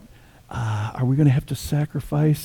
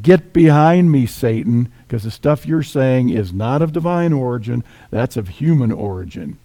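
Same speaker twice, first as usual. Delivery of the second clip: rebuke; 2 semitones higher, 5 dB louder than usual. Retold or imitated. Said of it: "turned on him like a rabid dog and rebuked".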